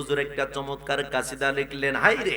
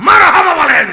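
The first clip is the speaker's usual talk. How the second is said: very high, full-force shout; rallying shout; 18 dB louder than usual. Real, not acted. Preacher tells the congregation to respond, rallying shout. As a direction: shout to rouse the whole crowd.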